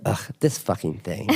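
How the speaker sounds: a casual laughing ugh, this fucking thing; mock annoyed toddler. Dad imitating his daughter cursing over spilled cake, mildly annoyed. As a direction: toss it off like a mildly annoyed little kid. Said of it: "And that's how she said it".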